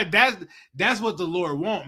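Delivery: laughing. Real, not acted. Laughing at own bit.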